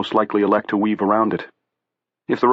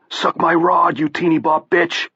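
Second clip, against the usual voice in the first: loud jeering yell from a car; 9 semitones higher, 3 dB louder, slower than usual. A narrator's reading. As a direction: yell it out raw and mocking. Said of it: "and yelled".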